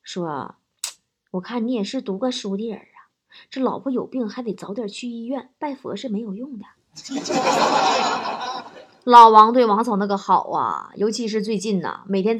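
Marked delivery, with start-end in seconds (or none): 1.3-6.6 soft, grave advice; deadpan solemn old granny; very serious. Acted. Old granny advising man carrying his wife uphill, very serious. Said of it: "特别严肃".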